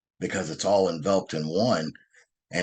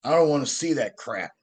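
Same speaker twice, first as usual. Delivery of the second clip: higher, louder hillbilly boss yelling across the bar; retold yell; 6 semitones higher, 3 dB louder than usual. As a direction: bellow it like a big bar owner telling them off. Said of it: "he screams and he says".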